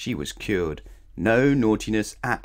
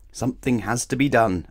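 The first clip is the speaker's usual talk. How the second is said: announcing; 4 semitones higher, 5 dB louder than usual. Acted. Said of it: "announced Mister Uppity".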